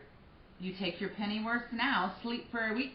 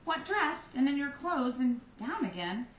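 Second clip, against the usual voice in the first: higher, louder coaxing wake-up; fussing nurse; 6 semitones higher, 6 dB louder than usual. Acted. Nurse trying to rouse Juliet, high and loud. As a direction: shake her awake with chatter.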